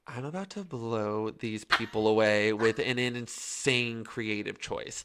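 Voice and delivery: slow, measured retold inner voice; slow, mock-confident self-talk; deliberate resolve. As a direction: draw it out like a secret boast. Retold secret resolve before audition.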